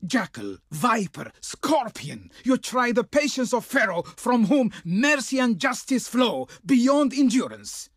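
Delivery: theatrical, imperious outrage; grandly scandalised refusal; indignant envoy. Acted. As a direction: hurl curses as an offended royal herald. Envoy insults and rejects the proposal.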